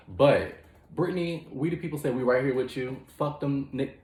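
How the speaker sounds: hyped mock-courtroom battle cry; rallying shout. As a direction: call out to her like a crowd leader.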